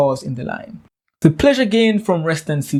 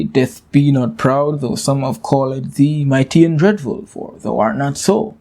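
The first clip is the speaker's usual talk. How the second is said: poem quote. Shown as a demonstration. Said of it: "lines one and two say".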